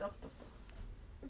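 slow, soft whispered doch, doch, doch; teasing whisper. Real, not acted. Friend teasing the protester in a slow whisper. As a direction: tease her under your breath, slowly.

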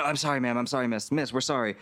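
mildly cowed staff backing away; apologetic servants. Retold or imitated. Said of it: "all the servants are like".

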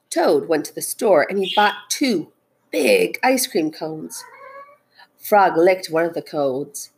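expressive picture-book narration; storytelling. A narrator's reading. Teacher reads Frog and Toad aloud, storytelling. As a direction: read it out to children, stressing key words.

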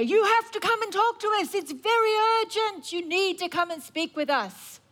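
hammed-up pressing summons; pushy enemies. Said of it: "And they say".

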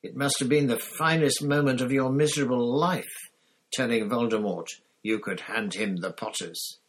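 loud, bitter accusation; angry Black. A narrator's reading. Black accusing Pettigrew of betrayal, loud and bitter. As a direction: hurl the contempt at him, loud.

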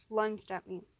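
usual speaking voice

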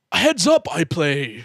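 Yoda. Pretend. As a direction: play a little wise creature, dropping in pitch.

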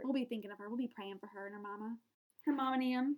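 put-on chatty Southern US accent; lightly played Southern accent. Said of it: "I do have a Southern accent sometimes".

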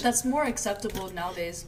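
talking while eating an apple; words round a bite of apple. Real, not acted. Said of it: "Sorry, I'm eating an apple".

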